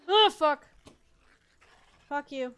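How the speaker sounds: panicked real scream; screaming in fright at a monster; screaming at a spider. Real, not acted. Attacked by a creature.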